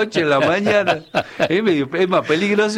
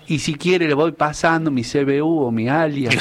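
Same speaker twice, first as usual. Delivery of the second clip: verse recital. Acted. Cacheño performs his 25 de mayo lines for the hosts, reciting verse. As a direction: recite a homemade folk verse. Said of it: "le he hecho unas líneas".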